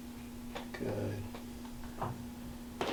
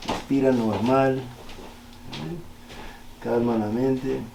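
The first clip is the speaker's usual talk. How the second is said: calm soothing; slower than usual. Acted. Therapist calms patient during stretch.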